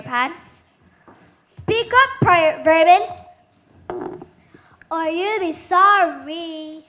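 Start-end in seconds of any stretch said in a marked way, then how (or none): 1.6-6.8 stern demand. Acted. Mermaid queen demands answers.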